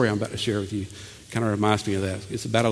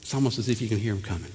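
softer, fast hush; hushed leaning-in; 3 semitones lower, 7 dB quieter, faster than usual. Acted. Preacher hushing congregation to listen, softer. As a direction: draw them in to listen. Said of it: "if you listen close enough".

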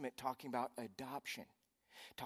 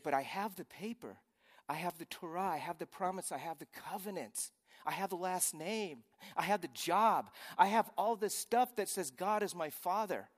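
building from mild insistence to loud, higher indignant claim; Nicodemus protesting; 6 semitones higher, 6 dB louder than usual. Retold or imitated. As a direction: list each claim, getting louder and prouder. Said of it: "He said".

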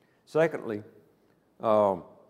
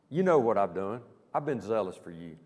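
self-pitying Elijah. Retold or imitated. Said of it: "Can you feel the emotion in Elijah's voice?".

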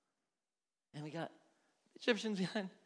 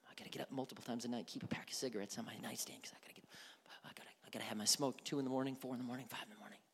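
rushed retelling; 5 semitones lower, 6 dB quieter, much faster than usual. Retold or imitated. Voicing a smoker's story.

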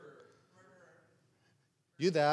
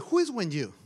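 ordinary talk, nothing marked

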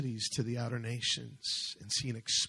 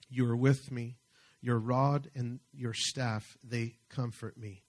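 scripture reading. Acted. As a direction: read the psalm aloud, pausing between phrases. Reads the psalm aloud.

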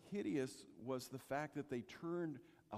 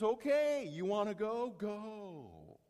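God relenting; 4 semitones higher, 5 dB louder, slower than usual. Retold or imitated. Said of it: "Finally, God says".

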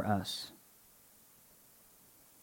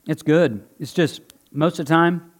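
talking around a grape; mouth full. Real, not acted. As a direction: speak through a mouthful. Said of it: "now I have to talk with my mouth full".

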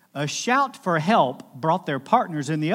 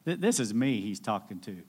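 ashamed realization; 3 semitones lower than usual. Retold or imitated. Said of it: "he realized".

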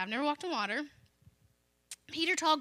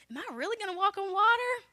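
faster, higher, thrilled question; eager disbelief; 4 semitones higher, faster than usual. Retold or imitated. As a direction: rush it out in wonder. Peter repeats with rising excitement.

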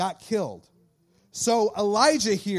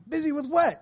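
higher teasing disbelief; mock incredulous; 8 semitones higher, 3 dB louder than usual. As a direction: needle the teen, hammed-up. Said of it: "It's like".

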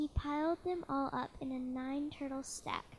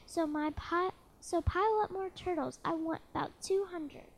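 bellowing king; 4 semitones higher, 4 dB louder than usual. Acted. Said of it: "he bellowed and brayed".

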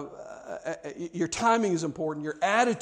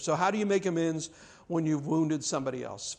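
ordinary talk

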